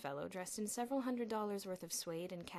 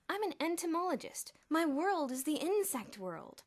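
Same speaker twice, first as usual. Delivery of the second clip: put-on nerdy boy voice; 9 semitones higher, 9 dB louder than usual. A narrator's reading. Nerdy Elmer voiced high.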